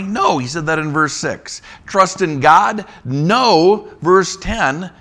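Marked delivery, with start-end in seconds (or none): 1.9-2.8 higher, louder scoffing question; mocking question. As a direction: scoff at the idea. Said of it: "recycling what he's already said".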